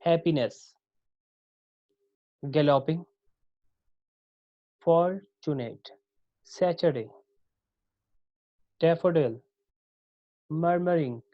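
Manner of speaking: each word from Happiness to rhapsody stressed on its first syllable; strong-weak-weak on Happiness, galloping, fortunate, each set apart; dactylic stress. Shown as a demonstration. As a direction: model words like daffodil and rhapsody, stressed at the front, long pauses between. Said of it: "one stress syllable followed by two unstressed".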